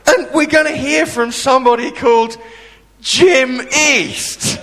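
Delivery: high, reluctant schoolgirl announcing the speaker; flat announcement. Retold or imitated. Schoolgirl MC introduces the guest, high and reluctant. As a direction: read the name out like an unwanted chore. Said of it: "She went".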